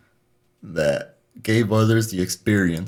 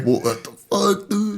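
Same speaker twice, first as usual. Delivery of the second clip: exasperated retort; 11 semitones higher, slower than usual. Retold or imitated. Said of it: "and it's like".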